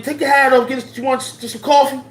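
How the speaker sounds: put-on high, bossy old mama voice; very high, loud mama hosting the police. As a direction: order the policeman to take his hat off like a mama would. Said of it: "those are the old mamas".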